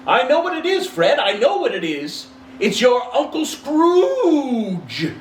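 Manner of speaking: very high, loud triumphant shout; excited cry. A narrator's reading. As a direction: blurt the answer, thrilled, stretching the end slowly. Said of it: "the plump sister cried out".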